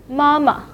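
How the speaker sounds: mama with a short, light second syllable; neutral-tone demo. Shown as a demonstration. Teacher points out the second syllable of mama, neutral tone. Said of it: "will be in a neutral tone".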